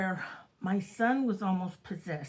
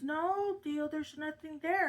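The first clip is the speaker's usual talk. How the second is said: grandson's voice; 6 semitones higher than usual. Retold or imitated. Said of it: "my grandson looked at him and says".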